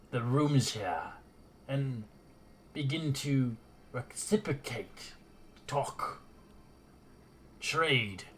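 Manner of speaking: lightly voiced regal lizard queen, slow and formal; a hint of a proud queen laying down terms; lizardfolk queen.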